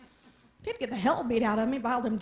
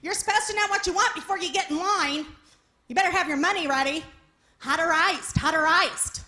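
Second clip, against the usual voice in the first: mock yelling customers; 3 semitones higher, 4 dB louder than usual. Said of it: "are starting to yell at me".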